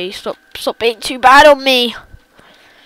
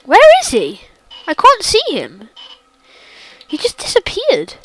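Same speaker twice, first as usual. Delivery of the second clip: panicked; 5 semitones higher, 4 dB louder than usual. Real, not acted. Searching for Slender, scared.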